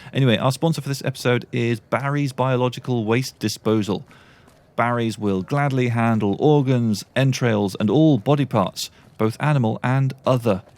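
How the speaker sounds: mock advert announcer; tongue-in-cheek ad read; sponsor read. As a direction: deliver it like a sponsor spot, each item deliberately set out. Reads a joke sponsor advert.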